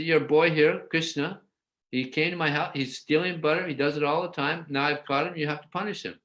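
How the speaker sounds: high-pitched indignant complaint; complaining gopi. Retold or imitated. Elderly gopi complaining to Mother Yasoda about Krishna, high-pitched.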